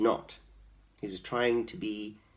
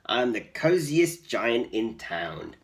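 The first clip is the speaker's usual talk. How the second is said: slow contented sigh of comfort; happy cry; 5 dB louder, slower than usual. Acted. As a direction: savour each word, cosy and content. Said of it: "he cried".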